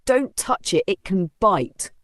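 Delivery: a mildly scared warning; fearful warning. Acted. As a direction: warn them off nervously. Warning crowd.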